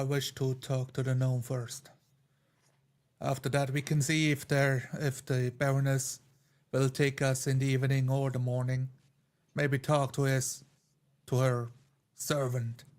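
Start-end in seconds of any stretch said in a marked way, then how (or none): none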